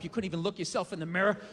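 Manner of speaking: ordinary delivery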